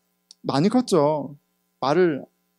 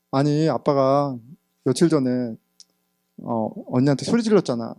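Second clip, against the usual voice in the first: gentle explanation; 4 semitones lower than usual. Retold or imitated.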